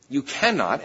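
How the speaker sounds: "cannot" set firmly apart, falling; stress on CANNOT. Real, not acted. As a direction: lean on the word "cannot" without raising the voice. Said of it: "I emphasize the word cannot".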